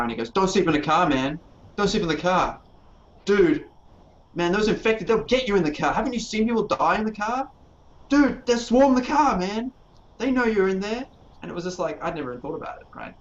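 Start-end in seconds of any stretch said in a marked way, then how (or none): 0.3-11.1 high, loud panicked rant; imitating a frantic player pleading with his group; raving in character. New player warning his group about zombies, frantic high raving. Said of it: "he was just raving on about this".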